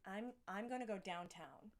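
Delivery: passable put-on American accent; Aussie imitating an American, restarting the line. Shown as a demonstration. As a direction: repeat it carefully in an American accent. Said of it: "That's pretty good".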